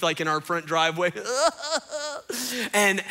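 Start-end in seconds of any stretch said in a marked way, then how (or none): 1.2-2.7 high imitated wailing sobs; hammed-up crying of a frustrated child; mock weeping. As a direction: fake bawling in bursts. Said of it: "there's just weeping and gnashing of teeth".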